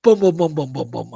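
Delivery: quick run of knocking booms; imitated banging. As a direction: thump out rapid booms, starting hard. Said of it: "up in the air and going".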